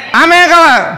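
high, loud call to the congregation; rousing call. Real, not acted. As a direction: push for a bigger Amen, loud and high. Repeats call for louder Amen.

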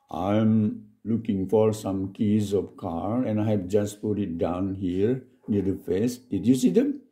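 slow, careful English read-aloud; slow dialogue reading. Shown as a demonstration. Teacher reading the dialogue slowly to the class. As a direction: spell out each word of the text for learners.

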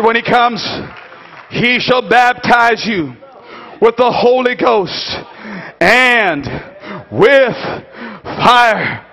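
phrase-by-phrase solemn proclamation; measured solemn preaching. Acted. Preacher repeating John's promise after the climax, measured and solemn. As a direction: set each phrase apart with pauses.

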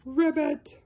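a light frog ribbit; frog croak. Acted. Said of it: "What does a frog say?".

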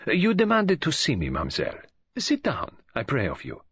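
put-on courteous detective with an accent, lilting then dropping; a lightly voiced, formal foreign gentleman; Poirot.

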